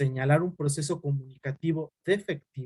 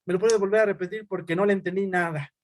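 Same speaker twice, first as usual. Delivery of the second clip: confused patient; 3 semitones higher than usual. Retold or imitated. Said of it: "el paciente así se queda".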